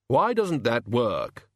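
slow and heavily puzzled; puzzled, heavy voice. Acted. Hogfather puzzled the boars won't move, slow and heavy. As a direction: ponder it slowly, baffled. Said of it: "in a puzzled, heavy voice".

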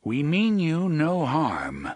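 slow formal hail to strangers; calling out. A narrator's reading. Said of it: "the gunslinger called".

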